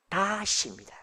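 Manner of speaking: ordinary talk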